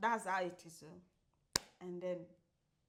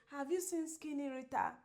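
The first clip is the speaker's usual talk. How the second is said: higher, imitated pleading question; mock plaintive plea; 4 semitones higher than usual. Friend retells the man asking his coach, mock near-crying. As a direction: mimic him as if near tears. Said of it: "You make it sound like I was almost crying".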